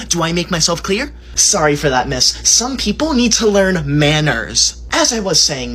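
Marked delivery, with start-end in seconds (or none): 2.5-4.9 snide aside. Acted.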